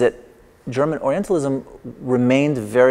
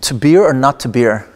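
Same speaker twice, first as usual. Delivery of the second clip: louder, a hammed-up Hamlet-style delivery; mock-solemn pun, said louder; mock-grand punchline; 6 dB louder than usual. Shown as a demonstration. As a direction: declaim the pun like a grand soliloquy. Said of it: "So I'll try with this".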